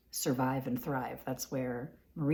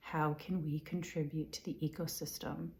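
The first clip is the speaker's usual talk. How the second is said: softer repeat fading into a whisper; 6 dB quieter than usual. Shown as a demonstration. Repeating the question quietly, sinking into a whisper. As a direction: murmur it again, then drop to breath.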